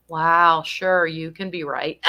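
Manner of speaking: lightly mocking, half-hearted wow; imitating caregivers faking agreement; mock insincere agreement. Young caregivers brushing off residents, mocking tone. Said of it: "My caregivers, the young ones, will go".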